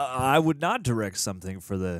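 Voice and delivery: half-hearted impression, barely any Boston; low-key first stab at a Boston actor; Ben Affleck. Co-host tries an actor impression on request, understated and barely accented. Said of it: "do your best Ben Affleck impression".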